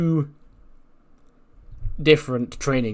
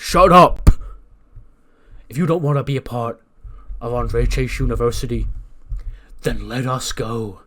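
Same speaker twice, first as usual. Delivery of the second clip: angry retort; 6 dB louder than usual. Retold or imitated. Keith Lee snapping back at Jericho, angry mock shout. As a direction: explode on the first words, then stay forceful. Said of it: "sort of gets angry and goes".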